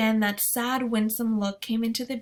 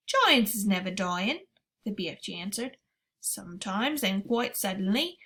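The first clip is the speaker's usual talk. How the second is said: giant BFG voice. Acted. BFG speaks in story.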